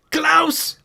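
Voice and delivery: loud, high, stretched-out call; mock-excited shout, drawn out; playful shout. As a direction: holler the name like a fan. Calling out a name in jest.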